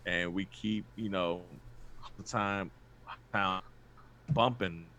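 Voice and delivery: glitchy robotic internet voice; choppy lagging robot voice. Real, not acted. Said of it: "what he said in that robotic voice".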